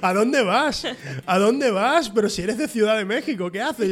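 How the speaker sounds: mock incredulity. Man jokingly challenging a TikToker's fake accent, incredulous protest.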